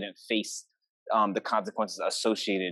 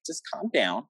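higher-pitched mock reassurance; retold soothing; 5 semitones higher than usual. Older sibling calming angry little sister, soothing. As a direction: placate someone, pitched up and playful.

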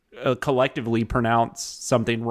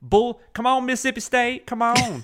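Southern SEC fan voice; 12 semitones higher than usual. Retold or imitated. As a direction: egg on Mississippi State like a rowdy Southern fan. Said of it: "that's my voice for, like, S E C fans".

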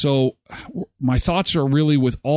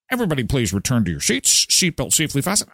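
flight attendant; 3 semitones lower, faster than usual. Retold or imitated.

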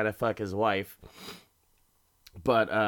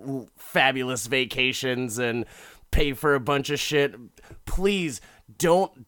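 hammed-up proud man, raised and emphatic; mock-earnest plea; 3 semitones higher, 3 dB louder than usual. Big prideful man addresses rich people, mock-earnest plea. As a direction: beg with overblown, put-on indignation.

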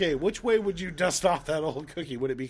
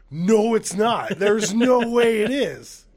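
retold protest; 4 semitones higher, 5 dB louder, much slower than usual.

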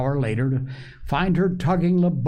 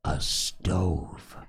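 put-on quiet, lower little girl voice; child whispering her wish to the doctor; soft whisper; 5 semitones lower, 5 dB quieter than usual. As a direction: tell it like a secret in his ear. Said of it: "whispered in the doctor's ear".

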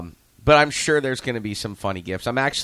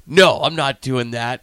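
mock refusal; 4 semitones higher, 8 dB louder than usual. Coach voices George refusing.

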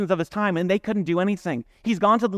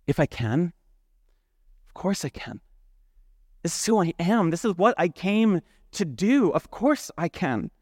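calm assurance. Retold or imitated. Jesus answer quoted slowly.

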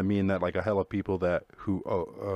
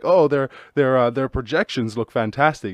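mock business pitch; 3 semitones higher, 5 dB louder than usual. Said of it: "they're like".

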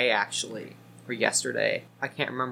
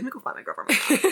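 a hint of giddy higher voice; lightly voiced giddy girl; 9 semitones higher than usual. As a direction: say it like a lovestruck girl. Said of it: "She's like".

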